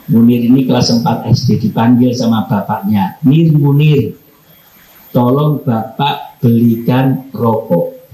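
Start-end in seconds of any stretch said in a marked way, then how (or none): 3.2-8.0 curt call by name. Shown as a demonstration. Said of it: "Langsung manggilnya itu nama saya".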